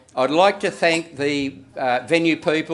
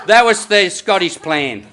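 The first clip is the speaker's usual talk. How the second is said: emphatic punchline; 3 semitones higher, 5 dB louder than usual. Real, not acted. Punchline said then echoed.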